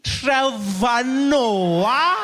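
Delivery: very slow, high, loud rising question; unfriendly receptionist. Acted. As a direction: stretch the name out in loud recognition. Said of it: "She's not friendly at all".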